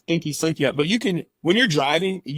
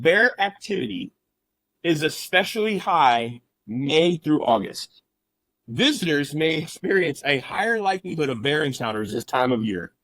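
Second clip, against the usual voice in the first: reading a warning. Retold or imitated. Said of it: "And this is what it said".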